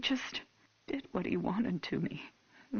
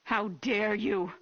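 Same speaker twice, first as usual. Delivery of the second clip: indignant; 5 semitones higher than usual. Acted. Mother offended by chief.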